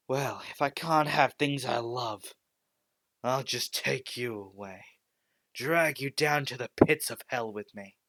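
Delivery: snapped. Acted. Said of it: "he just snapped".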